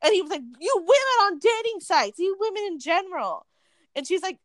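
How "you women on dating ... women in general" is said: high-pitched, slowed imitation of indignation; mock angry rant. Retelling a customer ranting at women in line, mock indignant. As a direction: imitate a riled-up man, voice pushed high.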